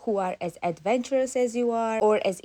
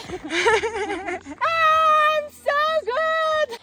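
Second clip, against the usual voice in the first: laughing; 6 dB louder, much slower than usual. Real, not acted. Laughing brag, drawn out.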